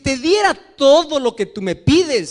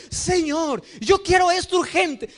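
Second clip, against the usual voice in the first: demanding prayer; 6 semitones higher than usual. Retold or imitated. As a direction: act out a pushy believer demanding it now.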